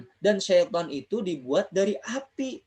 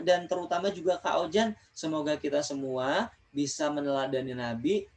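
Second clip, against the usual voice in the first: spoken prayer; 2 semitones lower than usual. Real, not acted. Teacher praying for pupils, parents and teachers, subdued prayer.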